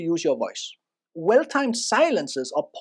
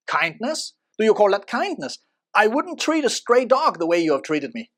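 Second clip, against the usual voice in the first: bitter, unfriendly reproach; hurt, angry rebuke; resentful anger; 3 semitones higher, 3 dB louder than usual. Shown as a demonstration. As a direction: throw the word kindness back at them with resentment. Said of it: "you clearly hear resentment, anger, and unfriendliness".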